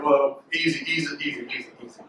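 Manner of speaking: low, soft, fading to nothing; calm a spooked animal, trailing off; hushed easy-easy, dying away; mock soothing fade. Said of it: "scared, like".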